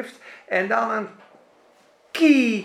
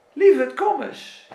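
tender call; 6 semitones higher than usual. Acted. God calling tenderly.

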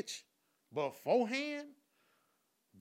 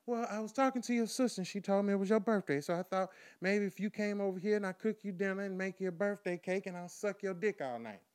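lightly voiced seductive woman; a hint of a sweet-talking invitation; imitating the woman; 3 semitones higher than usual. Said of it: "this is what she proceeds to say".

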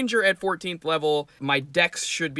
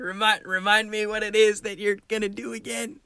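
put-on master voice, higher and held on one note; higher, steady mock-master voice; master's prompt rephrased; 5 semitones higher than usual. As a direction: redo the master as an innocent memory check, pitched up. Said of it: "That's not the way you phrased it".

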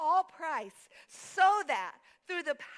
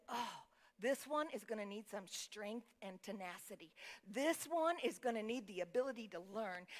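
softer, lower, intimate voice; tender imagined God; 4 semitones lower, 7 dB quieter than usual. Acted. Preacher voicing God over an unborn child, softly and low. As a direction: speak quietly over someone you are forming.

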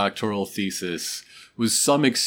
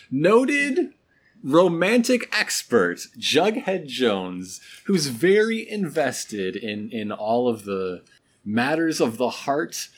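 announcer voice; 2 semitones higher than usual. Pretend. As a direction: introduce him like a celebrity. Mock grand introduction.

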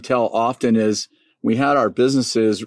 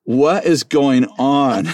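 laughing disbelief; 4 semitones higher, 3 dB louder, much slower than usual. Retold or imitated. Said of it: "And I said".

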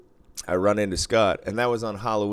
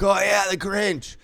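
much higher, slow dawning realization; imitating Scott; 11 semitones higher, slower than usual. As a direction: drag out the oh as it clicks.

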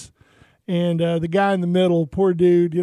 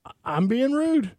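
incredulous; 4 semitones higher than usual. Retold or imitated. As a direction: throw her word back in disbelief. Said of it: "I looked at her and I said".

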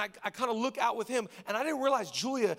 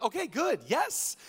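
relieved dad; 3 semitones higher, slower than usual. Retold or imitated. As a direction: cheer on a kid who woke up happy. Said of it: "if they wake up happy".

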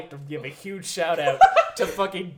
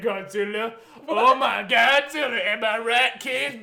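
mock cheesy comedian; 4 semitones higher, slower than usual. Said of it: "This guy just shows up with".

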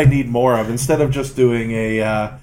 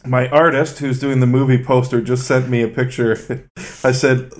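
normal talking voice

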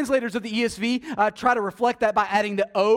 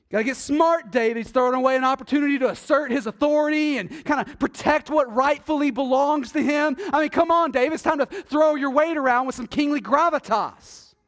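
worldly advisor voice; 6 semitones higher, 4 dB louder than usual. Acted. Voicing worldly advice to David.

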